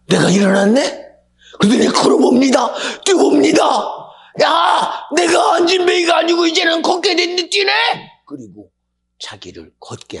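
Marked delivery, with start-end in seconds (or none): 0.1-1.1 loud, high rising cry of amazement; astonished. Acted. Healed lame man discovering he stands, astonished. 1.6-3.6 high, shouted storytelling; excited narration. A narrator's reading. Preacher telling of the lame man walking, excited shout. 4.4-7.7 very high, loud cry of joy; elated shouting. Acted. Healed lame man rejoicing that he can walk, elated.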